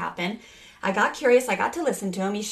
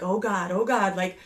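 voicing son's panic; 2 semitones higher, 4 dB louder than usual. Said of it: "It starts to well up like".

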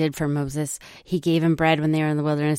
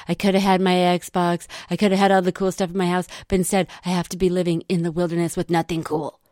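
complaining brothers. Retold or imitated. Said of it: "That's what they were saying".

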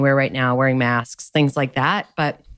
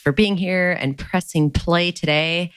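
nasally from a cold; stuffy nose voice; 2 semitones higher than usual. Real, not acted. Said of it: "I sound a little nasally".

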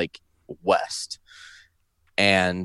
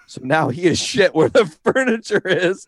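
slightly higher, a laugh breaking in; a touch of laughter; 7 semitones higher, 3 dB louder than usual. Real, not acted. Explaining the smell to a friend, with a light laugh. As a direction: chuckle through it.

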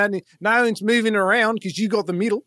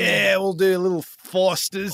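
put-on Australian accent; slower than usual. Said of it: "them beautiful Australian accents".

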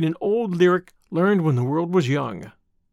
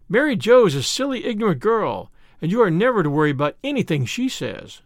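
ordinary delivery, nothing marked

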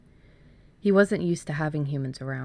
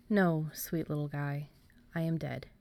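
sad; 6 dB quieter than usual. Acted. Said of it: "Terrible sadness in her voice".

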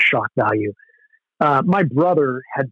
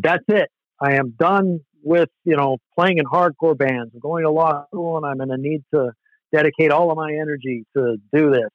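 ceremonious declaration. Retold or imitated. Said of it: "I made this ceremonious declaration".

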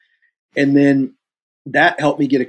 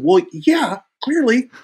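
high-pitched mock exasperation; retold obviousness; 11 semitones higher, 3 dB louder, slower than usual. Actor answering agent's bad news, mock exasperated. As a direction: rise high on a that's-obvious reply.

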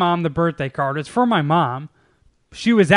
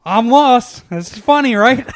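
mimicking a grandma's clueless shrug, louder; innocent grandma; 5 semitones higher, 7 dB louder than usual. Telling friends about grandma's birthday card, innocent shrug voice. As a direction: play the grandma, lost and pleased with herself. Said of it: "smiles at me and shrugs and just like".

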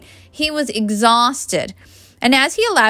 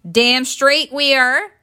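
higher, slow, defiant retort; spat out; 4 semitones higher, slower than usual. A narrator's reading. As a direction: spit it out with contempt. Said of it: "Natalie spat".

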